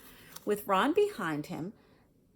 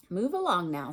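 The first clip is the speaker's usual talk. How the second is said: louder, curt teacher's command; strict professor shooing the ghosts; sharp; 6 dB louder than usual. Acted. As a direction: clip the order at the ghosts. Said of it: "said a sharp voice".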